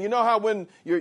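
ordinary talk

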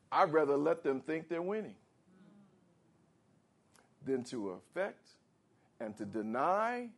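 tender God. Acted. God voiced tenderly protecting you.

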